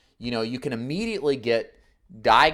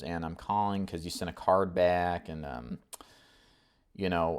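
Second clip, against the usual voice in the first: weird caller; 5 semitones lower, 3 dB quieter than usual. Shown as a demonstration. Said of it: "if you talk like this".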